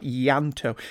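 Yanto with the opening I as a soft "ee"; Ianto pronunciation demo. Shown as a demonstration. Podcaster reads a correction of a Welsh name, Yanto carefully pronounced. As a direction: say Yanto as "YAN-toe", starting on a y glide. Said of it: "The I has a soft E sound".

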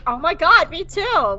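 high-pitched fan excitement; hammed-up delighted agreement; mock giddy bonding. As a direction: gush like a new best friend. Two characters bonding excitedly.

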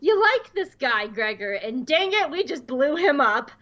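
high, goofy troll voice. Retold or imitated. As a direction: ham it up like a silly troll. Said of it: "dropped into his troll voice and said".

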